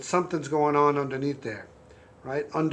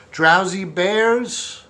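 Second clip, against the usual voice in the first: slow drowsy drawn-out bears; snoring bear; 3 semitones higher, 4 dB louder, much slower than usual. Acted. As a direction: stretch it out like a sleepy bear. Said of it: "I tried my, my snoring bear".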